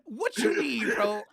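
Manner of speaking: frat bro. Pretend. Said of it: "Bro, be Jawan".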